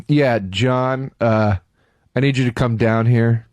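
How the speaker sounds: low, deadpan clerk on the phone; droning desk guy calling the manager; unbothered clerk. Retold or imitated. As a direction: report it low and weary, with pauses. Clerk phoning his manager, mocked.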